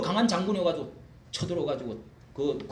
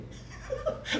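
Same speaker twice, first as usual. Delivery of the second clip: burst of laughter; 5 dB quieter than usual. Real, not acted. Laughing at own joke.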